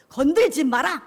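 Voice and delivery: loud, stern command; forceful hands-off order; God's warning. Acted. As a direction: shout a protective warning as God. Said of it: "하나님이 이렇게 말씀하세요".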